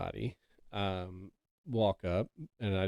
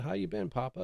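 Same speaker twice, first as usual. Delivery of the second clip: delighted greeting; 9 semitones higher than usual. Retold or imitated. Retold delighted greeting to grandfather.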